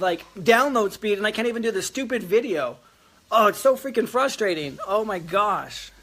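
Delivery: letting off steam about the internet dropping; real frustration. Real, not acted. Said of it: "I am so frustrated right now".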